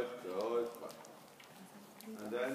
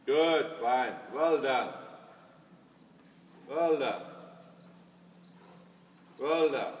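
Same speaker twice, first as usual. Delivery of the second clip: brisk projected riding commands; 5 dB louder, slower than usual. Real, not acted. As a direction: call the praise across the arena. Praising rider from across arena.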